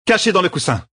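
high alarmed warning; alarmed discovery. Acted. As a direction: show the hidden needle, alarmed. Birgit shows needle. (découverte alarmée)

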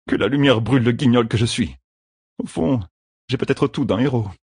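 lightly voiced young gambler, self-mocking; hint of bitter humour in Matt's head; Matt's wry inner voice. A narrator's reading. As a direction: mutter a rueful curse at yourself.

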